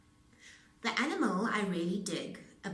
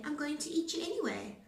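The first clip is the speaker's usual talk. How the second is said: wolf threat; 8 semitones higher, faster than usual. A narrator's reading. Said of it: "no matter what you say".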